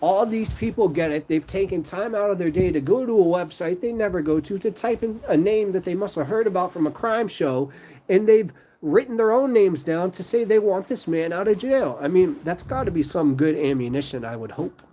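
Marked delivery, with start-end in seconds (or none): 0.0-12.0 voicing a judge. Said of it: "a judge saying".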